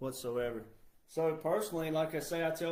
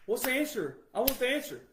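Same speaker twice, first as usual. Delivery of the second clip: higher, mock-impatient voice; mocking whiny demand; 8 semitones higher than usual. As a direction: parody someone who wants answers handed over. Mocking lazy people demanding answers.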